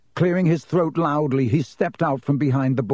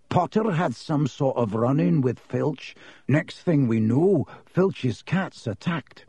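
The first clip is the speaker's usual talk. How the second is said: Ernie, grave accuser; 2 semitones higher than usual. Acted.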